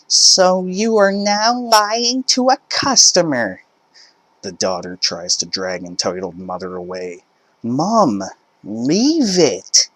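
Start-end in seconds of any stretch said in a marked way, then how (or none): 0.1-3.6 much higher, louder accusation; outraged mother. Acted. Mother accusing cashier of lying, high loud outraged voice. Entitled mother arguing at checkout. 7.6-9.9 high, urgent plea; embarrassed daughter. Acted. Daughter begging her mum to stop, high urgent voice. Daughter dragging mother away.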